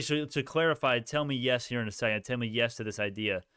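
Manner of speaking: usual speaking voice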